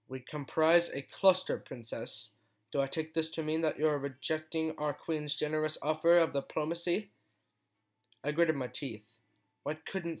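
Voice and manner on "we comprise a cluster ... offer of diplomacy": haughty. Acted.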